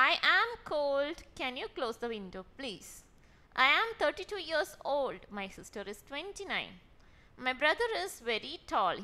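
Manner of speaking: very slow, each word drawn out; slow dictation. Shown as a demonstration. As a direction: read the examples slowly for learners. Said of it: "teacher reads example sentences". (ഉദാഹരണങ്ങൾ പതുക്കെ വായിക്കുന്നു)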